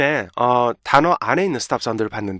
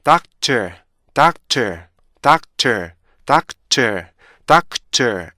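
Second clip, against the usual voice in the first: "doctor" quicker but every beat kept; faster doctor; 3 dB louder, much slower than usual. Shown as a demonstration. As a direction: run "doctor" faster, keep the stops. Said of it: "좀 더 빨리 읽으면요".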